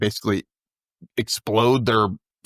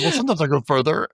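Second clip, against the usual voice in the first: defensive shout; 5 semitones higher, faster than usual. Retold or imitated. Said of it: "And he was like".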